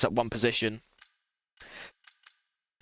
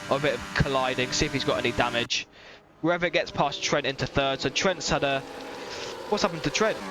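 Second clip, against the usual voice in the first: motorsport commentator; 2 semitones higher than usual. Acted. Live race play-by-play commentary.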